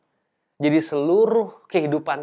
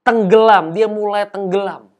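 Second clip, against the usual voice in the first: loud preaching burst; 5 semitones higher, 9 dB louder than usual. Acted. Dramatic sinking climax.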